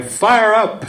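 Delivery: high-pitched mock cheer; imitated rallying cry. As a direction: call it out like a persistent chant leader. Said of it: "she keeps saying".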